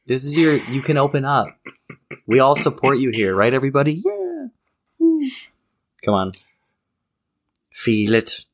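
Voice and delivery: rally a nervous friend with cheers; hype man. Real, not acted. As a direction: pump up the room. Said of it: "hyping up a hesitant friend".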